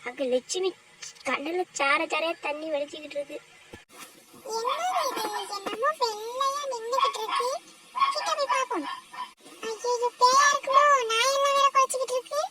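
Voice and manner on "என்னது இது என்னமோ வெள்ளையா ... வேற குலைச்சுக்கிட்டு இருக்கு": higher, hushed curious fear; a touch of fear. Acted. The women spot a white shape and creep closer, higher and hushed. Scared peek at white figure.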